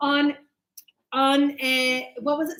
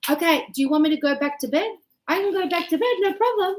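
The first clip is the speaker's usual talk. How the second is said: agreeable retort; 3 semitones higher, much faster than usual. Retold or imitated. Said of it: "So I was like".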